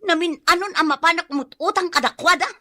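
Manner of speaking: high, exasperated protest; indignant protest. Acted. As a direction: refuse him, ashamed and fed up. Wife refuses to borrow money. (agunget ken mabain)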